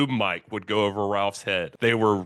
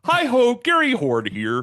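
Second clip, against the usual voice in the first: high lisping puppet voice; Muppet voice; 14 semitones higher, 6 dB louder than usual. Acted. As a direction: chipper high Muppet host. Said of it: "Muppet voice has a lisp".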